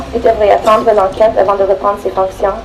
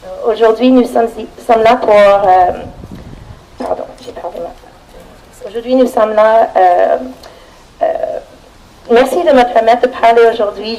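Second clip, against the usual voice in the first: shaking voice. Real, not acted. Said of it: "Sorry, I'm shaking".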